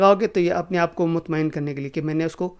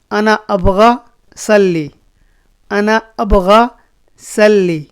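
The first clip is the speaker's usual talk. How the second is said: louder, clearly projected model phrase; emphatic demo; 3 semitones higher, 7 dB louder, slower than usual. Shown as a demonstration. Teacher loudly modelling "I want to pray". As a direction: call it out so learners hear. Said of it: "تو اس کو بولو گے".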